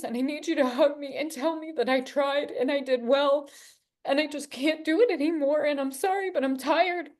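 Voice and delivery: high, tearful plea to be taken home; pleading to God. Retold or imitated. Pleading to God, about to die.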